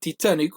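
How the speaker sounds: Titanic starting Tee, not Tie; Portuguese-style vowels on Titanic; Portuguese pronunciation. Shown as a demonstration. Guest contrasts versions for friends, Portuguese Titanic. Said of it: "you'd say".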